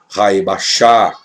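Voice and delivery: "Raibachá" drawn out slowly to an open vowel; silent final letter. Shown as a demonstration. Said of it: "Mudo também". ("Raibachá" devagar, com a letra final muda)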